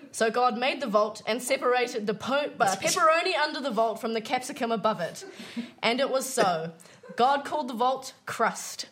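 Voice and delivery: solemn scripture reading voice; biblical narration. Acted. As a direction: read it like Genesis, grand and measured. Reads mock Genesis creation story.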